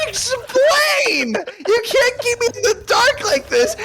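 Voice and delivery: very high, wailing shout; angry demand. Real, not acted. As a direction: demand it in a frantic, high-pitched yell. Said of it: "you just kept getting angrier and angrier".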